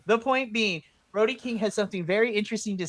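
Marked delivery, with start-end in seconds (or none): 0.1-0.8 slow, laughing repeat. Real, not acted. Host laughing as she restarts her point, slowly. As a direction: chuckle through the restart.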